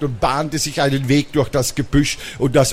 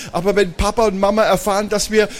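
put-on high, hurried boy's voice; worried little brother; 6 semitones higher, faster than usual. Little brother fears parents finding out, worried. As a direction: rush out the worry and leave it hanging.

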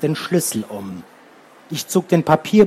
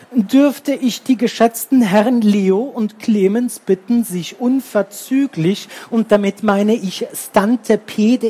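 higher, fussy and overly polite teacher voice; chirpy teacher; 4 semitones higher than usual. Acted. Annoyed teacher calling two late boys from the window, chirping. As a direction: chirp it out sweetly while plainly annoyed. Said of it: "und zwitscherte".

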